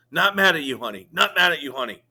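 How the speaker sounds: a pause between every word of Not mad at you, honey; extra pauses. A narrator's reading. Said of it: "adding extra pauses between the words".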